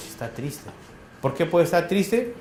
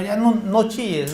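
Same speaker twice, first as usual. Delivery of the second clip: mock shrill scolding; 4 semitones higher, slower than usual. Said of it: "El ansioso chilla, no habla, chilla".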